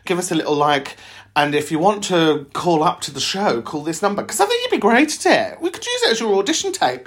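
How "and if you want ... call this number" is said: lightly voiced telly trailer announcer; a hint of a continuity announcer; TV voiceover. Shown as a demonstration. Host showing a caller a sample show trailer, light voiceover. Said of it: "trailer for the Patreon or something like that".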